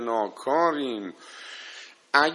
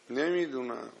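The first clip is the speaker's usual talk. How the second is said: soft repeat; 7 dB quieter, faster than usual. Real, not acted. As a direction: drop much softer, trailing off. Repeats admission softly.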